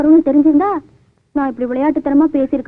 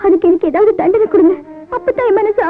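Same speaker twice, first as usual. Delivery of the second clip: crying; 2 semitones higher than usual. Acted. Remorseful woman breaks down.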